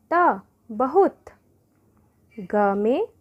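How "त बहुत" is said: बहुत blended slowly, higher and louder; slow blending. Shown as a demonstration. Teacher to pupils, slowly blending बहुत. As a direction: draw out त then बहुत slowly. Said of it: "ह में हर्षों की मात्रा हु".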